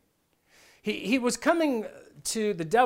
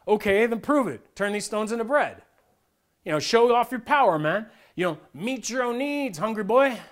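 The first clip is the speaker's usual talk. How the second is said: mock-taunting, somewhat louder; devil copping an attitude; 4 semitones higher, 4 dB louder than usual. Satan goading hungry Jesus to make bread, mildly cocky and louder. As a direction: goad him to prove himself. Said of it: "copping an attitude with Jesus".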